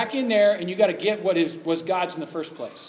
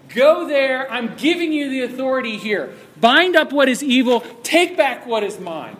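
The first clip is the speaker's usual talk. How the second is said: loud, higher, forceful command; commanding God; 6 semitones higher, 8 dB louder than usual. Acted. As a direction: give the order with full authority. God's command voiced in sermon.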